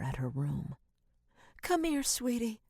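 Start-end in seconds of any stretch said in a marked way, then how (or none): 1.6-2.6 gentle coaxing. A narrator's reading. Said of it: "Rachel said, her arms outstretched".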